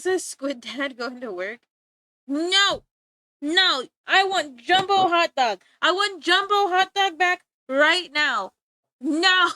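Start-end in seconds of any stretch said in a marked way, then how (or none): 2.3-9.5 put-on whiny shouted demand like a kid; mock toddler tantrum; childish tantrum. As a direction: stomp and wail for the song back. Mock tantrum demanding song back.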